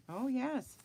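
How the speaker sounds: usual speaking voice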